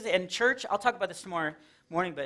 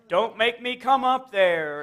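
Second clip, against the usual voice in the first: stern dad threat; 3 semitones higher, 3 dB louder, slower than usual. Retold or imitated. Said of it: "things that my dad used to say".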